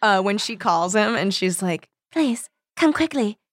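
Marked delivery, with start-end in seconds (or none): 2.1-3.4 high, urgent plea read from a book; pleading. A narrator's reading. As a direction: beg for help, lightly dramatized. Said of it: "she pleaded".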